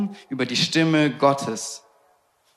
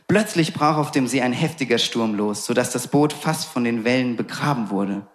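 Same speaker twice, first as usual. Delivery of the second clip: normal talking voice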